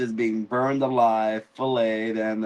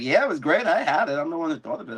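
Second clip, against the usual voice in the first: higher, eager agreeing voice; eager Jacaerys; 5 semitones higher, much faster than usual. Retold or imitated. Jacaerys eagerly backing up his mother, in a higher voice.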